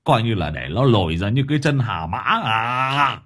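put-on loud exasperated old man berating; husband shouting. A narrator's reading. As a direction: lose all patience and rant at her. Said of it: "Ông hét". (ông chồng hét mắng vợ)

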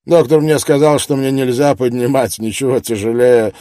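put-on Glasgow accent. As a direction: lay on a Glasgow brogue. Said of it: "намеренно подчеркивая акцент уроженца Глазго".

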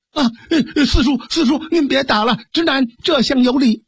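略高的嗓音，慌忙行礼; 结结巴巴地赶紧行礼，劝四叔别打; flustered girl greeting. Acted. Fengxian greets her uncle, flustered. (凤仙向四叔慌忙行礼，声音略高)

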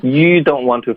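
"you" pronounced like Mandarin "鱼". Retold or imitated. Teacher imitating student's slip, "you" as "鱼". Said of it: "发成鱼".

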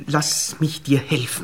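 langsam, tonlos geflüstert; flüstert drängend. Acted. Verführer beim Ausziehen. (drängendes Flüstern)

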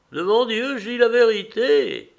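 high, loud vehement oath; exclaiming. A narrator's reading. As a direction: cry it out, swearing it is true. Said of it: "s'écria-t-elle".

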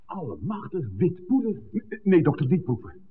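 startled, cry out to stop him tasting; alarmed warning. Acted. Priest startled by white powder, urgently warns the doctor not to taste.

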